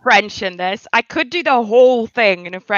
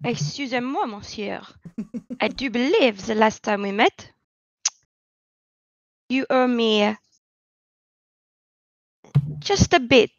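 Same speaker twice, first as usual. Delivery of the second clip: put-on suave French accent; 2 semitones lower, 3 dB quieter than usual. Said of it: "very suave French accent be like".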